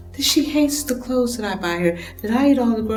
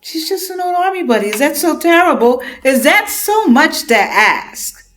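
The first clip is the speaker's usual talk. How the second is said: loud, higher, aggrieved plea; exasperated pleading; 5 semitones higher, 6 dB louder than usual. Acted. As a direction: demand fairness, voice rising. Pleading in argument.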